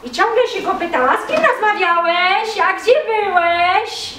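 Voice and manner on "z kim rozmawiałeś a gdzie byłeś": lightly higher prying questions; nosy wife. Acted. Curious wife keeps pestering her husband, lightly higher.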